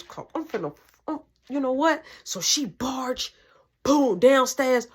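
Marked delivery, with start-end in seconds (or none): 2.2-4.9 whisper. Real, not acted. Storyteller whispering for suspense.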